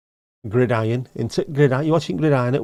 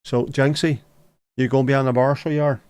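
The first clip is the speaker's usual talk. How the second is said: mock Belfast; 2 semitones higher than usual. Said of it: "So it is".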